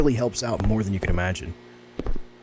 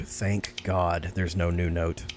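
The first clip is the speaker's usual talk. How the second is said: slow, weary relief; tired relief; 7 semitones lower, 5 dB quieter, much slower than usual. Real, not acted. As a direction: drag it out, worn out from reading. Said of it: "I'm so tired of reading".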